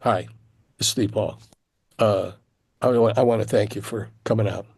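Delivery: lightly voiced, slightly subdued manager; manager on phone. Manager thanking the auditioning guitarist by phone, lightly voiced and understated. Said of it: "uh, the manager".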